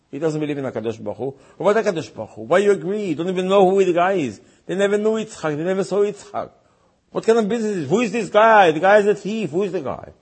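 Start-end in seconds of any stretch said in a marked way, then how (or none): 1.6-10.1 higher-pitched mock protest; lightly acted outrage, questions fired in a higher voice; mildly indignant. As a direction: act out an affronted father demanding answers. Father's outraged objections acted out.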